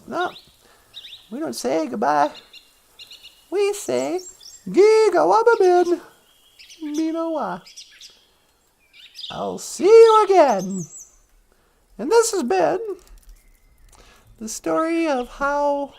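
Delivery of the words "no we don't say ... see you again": lightly acted wise elder, pitch raised; mock-solemn movie farewell with pauses; Graham Greene. Elder teaching the departing hero goodbye, solemn. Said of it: "Graham Greene goes".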